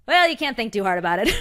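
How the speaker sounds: laughing quote. Retold or imitated. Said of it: "And she goes".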